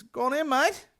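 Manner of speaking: high bloke voice; breezy wave-in, mocking it; mimicking staff guy. Recalling staff guy's words, high mocking voice. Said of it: "staff guy quoted again".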